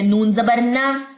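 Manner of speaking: NA held long in नून जबर ना; slow letter-and-vowel drill ending on a long ना; recitation demo. Shown as a demonstration. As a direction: spell out नून जबर ना slowly, stretching ना. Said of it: "नून की examples देखें".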